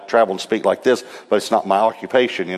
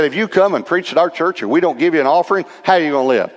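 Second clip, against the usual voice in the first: raised pitch, pressing question; incredulous challenge; 6 semitones higher, faster than usual. Retold or imitated. Pastor challenging a preacher who asks no fee, high and incredulous.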